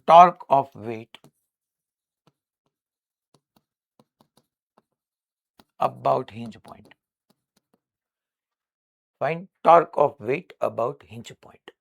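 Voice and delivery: very slow, word by word, for students to write down; slow dictation. Shown as a demonstration. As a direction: dictate it slowly so the class can copy. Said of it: "અચ્છા, આ આખે આખું જે છે". (ધીમે ધીમે લખાવવું)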